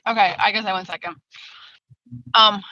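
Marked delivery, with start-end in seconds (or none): 0.1-1.2 talking with candy in mouth; words around a piece of candy; mouth full. Real, not acted. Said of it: "sorry, I have candy in my mouth".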